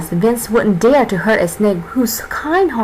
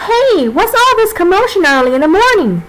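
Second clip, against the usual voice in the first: much higher, cranky snake voice; annoyed snake voice; 9 semitones higher than usual. Acted. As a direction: grumble like a snake woken too early. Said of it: "said Cammy".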